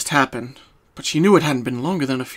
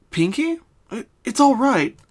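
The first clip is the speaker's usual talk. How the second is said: reassuring; 9 semitones higher, 4 dB louder than usual. Acted. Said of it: "trying to reassure her friend".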